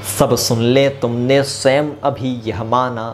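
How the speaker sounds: slow, measured verse recital; poem recitation. Acted.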